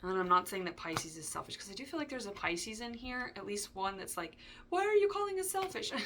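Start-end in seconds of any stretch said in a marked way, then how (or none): 4.7-5.9 squeaky high indignant little cookie voice; gingerbread voice. Pretend. Imagined Pisces protesting in a squeaky gingerbread voice. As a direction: pipe up high and offended, like a gingerbread man. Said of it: "the gingerbread voice there".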